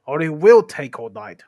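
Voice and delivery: loud troll complaint, a hint of squeak; lightly squeaky, loud troll; Bert's squeaky voice. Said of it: "the squeaky voice".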